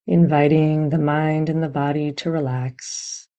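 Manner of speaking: calm, even meditation guidance with long pauses; guided meditation. Real, not acted. Meditation teacher settling listeners onto their anchor, calm and unhurried. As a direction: gently guide them into stillness, leaving long silences.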